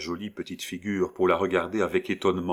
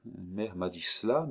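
put-on softer child murmur; 6 dB quieter than usual. Little girl murmurs the answer, softer. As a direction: murmur it to herself. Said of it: "murmura l'enfant".

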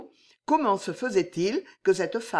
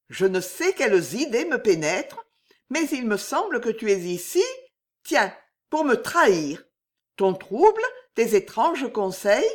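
suspicious frightened lady; 4 semitones higher, 4 dB louder than usual. Acted. Jeanne, suspicious mistress.

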